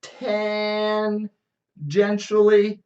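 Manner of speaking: high, very slow mock-Australian chant; Australian accent. Spirit continuing the doom prophecy, drawn-out Australian accent. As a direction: stretch each syllable in mock Australian. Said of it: "I'll do the accent".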